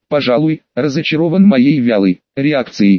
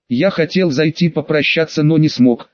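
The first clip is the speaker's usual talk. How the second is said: plain reading voice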